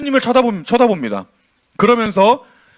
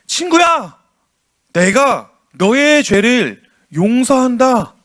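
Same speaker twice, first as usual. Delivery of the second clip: tender Jesus; slower than usual. Shown as a demonstration. Jesus gently forgiving the paralysed man, slow and tender. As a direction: speak forgiveness slowly, like a kind friend. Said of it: "빨간 글씨로 보면 여러분 뭐라고 얘기합니까?".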